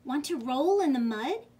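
a hint of pig in a loud inviting question; pig's invitation. A narrator's reading. Pig inviting the spider into mud, lightly voiced. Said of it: "grunted the pig".

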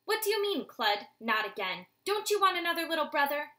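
high, loud, fast with an edge; edgy father. Acted. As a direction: press him, a father with an edge in his voice. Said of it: "There was an edge to his voice".

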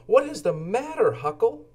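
a small worm asking kindly; Lowly Worm voice. Acted. Worm friend asks Huckle.

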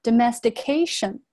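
domestication with the T softened towards D; voiced T after S. Shown as a demonstration. Teacher demonstrates voicing, domestication said with D-like T after S. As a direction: say the "sti" in domestication as "sdi". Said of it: "S后面的清辅音T要浊化成的".

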